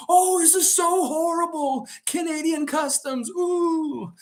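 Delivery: very high, hammed-up fake outrage; Larry David false outrage. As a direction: overplay being scandalized, ending in a wail. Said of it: "I did that false outrage that Larry David would do".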